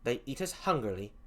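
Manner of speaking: put-on lightly done English accent; half-hearted English accent. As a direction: read it in a shaky English accent. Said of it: "I apologize for the crappy English accent".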